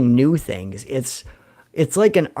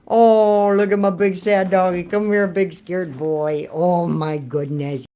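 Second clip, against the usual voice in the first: soothing dog talk; 3 semitones higher, slower than usual. Real, not acted. Comforting his scared dog in thunder.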